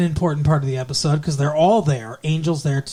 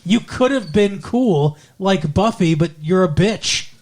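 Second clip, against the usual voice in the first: mock put-down, slowing for emphasis; retold telling-off; 2 semitones higher than usual. Willow finishing off Faith in a retold scolding. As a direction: deliver an imitated verdict, lightly scornful. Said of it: "Willow fucking tells her off".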